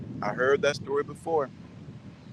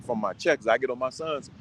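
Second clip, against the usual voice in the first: ordinary delivery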